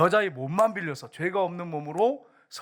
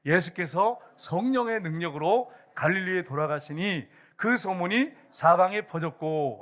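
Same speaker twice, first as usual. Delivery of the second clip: slow, measured congregational Bible reading; scripture read-aloud; slower than usual. Real, not acted. Preacher leading the congregation in reading Luke together, slow scripture read-aloud. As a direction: read the verse slowly for all to follow. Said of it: "같이 읽겠습니다".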